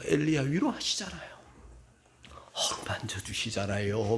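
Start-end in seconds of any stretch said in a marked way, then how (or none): 2.5-4.2 soft, low, hushed and gentle; whispered tender reminder. Real, not acted. Pastor reminding the congregation God comforts Elijah, tender whisper. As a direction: breathe it like a secret comfort.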